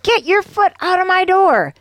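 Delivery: high-pitched, indignant mock shout; angry shout. A narrator's reading. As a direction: act out an angry woman shouting at a salesman. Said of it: "the woman shouted".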